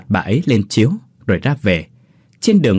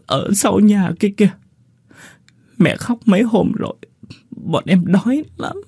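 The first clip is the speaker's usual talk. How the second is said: put-on high, halting little boy; small child stammering out sad news, much higher; child's voice; 10 semitones higher than usual. A narrator's reading. Boy tells the visitor his brother died, in a high halting child voice.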